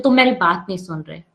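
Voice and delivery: sharp, blaming complaint; harsh accusing tone. Shown as a demonstration. Teacher showing the harsh way to accuse someone, said sharply. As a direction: throw the words at them. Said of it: "कितना फर्क है".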